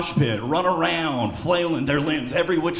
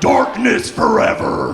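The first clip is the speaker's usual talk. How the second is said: mock doom; 6 semitones higher, 7 dB louder, slower than usual. Mock dramatic death line.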